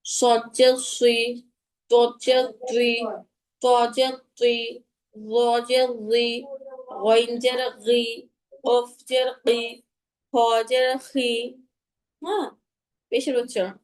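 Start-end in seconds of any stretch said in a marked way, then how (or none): 0.1-11.3 slow drill, thick consonants before the i vowel; measured recitation, heavy সদ, তদ, গইন, কফ, খ; heavy letters. Shown as a demonstration. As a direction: round the lips on সুই and তুই. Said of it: "জেরের উচ্চারণটা আমি করে".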